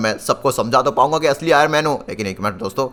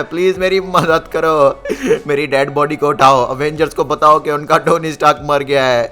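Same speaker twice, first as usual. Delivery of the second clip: wailing plea. Acted. Ghost mourns his own death.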